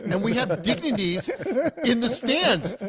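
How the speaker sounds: high-pitched mock outrage; screaming sergeant. Sergeant telling the jumper about dignitaries watching, retold screaming. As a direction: scold in an imitated sergeant's outrage. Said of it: "the one is just screaming, losing his shit".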